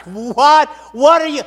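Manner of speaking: high, loud, incredulous; acted disbelief. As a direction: burst out in mock bafflement. Acts disbelief at Balaam's answer.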